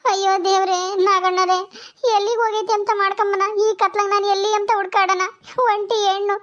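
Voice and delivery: acted wail of a helpless wife; mildly weepy, despairing appeal; tearful lament. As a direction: plead tearfully, ending in sobs. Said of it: "ನೀನ್ ಅಳ್ಬೇಡಮ್ಮ, ಅಳ್ಬೇಡ".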